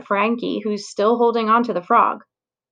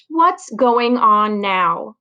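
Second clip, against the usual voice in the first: slow, ringing, stern demand; stern teacher call; 4 dB louder, much slower than usual. Acted. Teacher returning to a noisy class, slow stern demand. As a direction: call the room to order. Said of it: "voice rings out".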